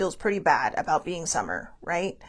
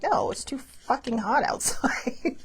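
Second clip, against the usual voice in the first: laughing retort; 4 semitones higher, slower than usual. Retold or imitated. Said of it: "And I'm like".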